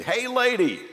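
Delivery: high-pitched parrot calling out; squawking parrot. Acted. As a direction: call it out like a pet-shop parrot. Parrot heckles passing woman.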